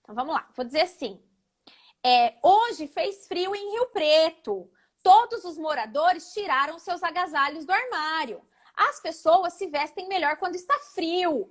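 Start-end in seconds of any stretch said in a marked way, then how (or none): 2.4-11.5 each phrase lifted in a gentle upward tune, slowed right down; rising intonation. Shown as a demonstration. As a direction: read it like good news, lines climbing. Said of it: "a entonação tá só aqui, subindo".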